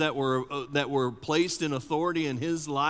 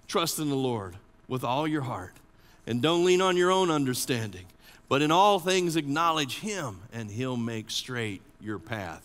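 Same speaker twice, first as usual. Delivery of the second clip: hushed, reflective reading of the verse. Shown as a demonstration. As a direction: say it gently, letting it sink in. Proverb repeated, second reading.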